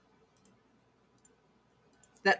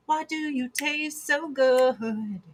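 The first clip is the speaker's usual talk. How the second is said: creepy mock voice; 4 semitones higher, 4 dB quieter, slower than usual. Imitating Dahmer, slow and soft.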